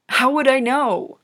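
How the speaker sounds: blurting it out, thrown off balance; voice not his own. Acted. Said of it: "his voice didn't sound like his own".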